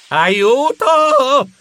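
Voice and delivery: high, drawn-out cry of alarm; scream for help. Acted. Cowering before the birds, frightened cry for help. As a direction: cry out as the blow comes.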